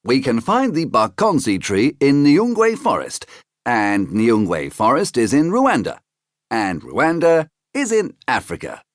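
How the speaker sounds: a high, eager storybook uncle; high Uncle Jack voice. Acted. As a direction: pitch up into the friendly uncle.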